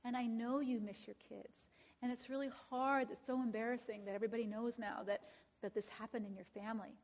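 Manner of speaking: soft, gentle sympathy for the husband; empathetic counselor. Retold or imitated. Counselor comforting the husband who was kicked out, softly empathetic. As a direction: soothe him quietly and kindly. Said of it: "which you can be very empathetic".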